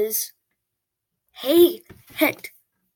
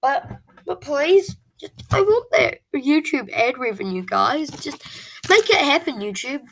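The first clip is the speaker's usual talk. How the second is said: begging whine; 3 semitones higher, 3 dB louder than usual. Real, not acted. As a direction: beg YouTube for money, half joking. Kid begging YouTube for revenue.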